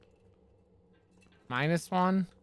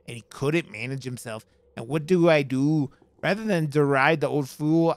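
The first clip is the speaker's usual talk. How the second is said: reading a note in a shaky attempt at Scottish; bad Scottish accent. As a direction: put on a hammy, amateurish Scottish accent. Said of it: "It's my bad Scottish accent".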